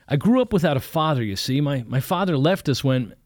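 put-on a young student fumbling for an excuse; nervous young man. Young man caught out, nervously bluffing to the preacher. Young narrator starts his story.

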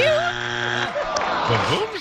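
squealed mock shout; high shout. Repeating the misread guess.

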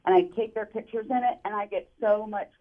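muffled phone line; underwater. Real, not acted. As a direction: voice bubbling through water. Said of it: "your phone sounds like it's underwater".

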